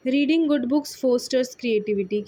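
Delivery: slow, clear sentence for learners; slow example reading. Shown as a demonstration. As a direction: read the sentence slowly to the class. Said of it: "reads the example sentence". (उदाहरण वाक्य धीरे धीरे पढ़ना)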